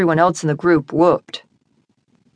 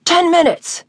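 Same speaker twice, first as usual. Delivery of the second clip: party guy voice; 12 semitones higher than usual. Acted. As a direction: call out the timer like a game host. Party guy announces timer.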